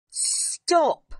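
high, loud sudden command; calling out. A narrator's reading. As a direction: call the child back abruptly. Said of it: "Miss Minchin called out".

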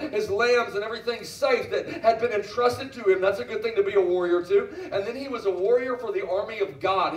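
emphatic, driving sermon delivery; fervent preaching. Real, not acted. Preacher telling the church what David fought for, fervent preaching. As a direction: press each phrase home to the crowd.

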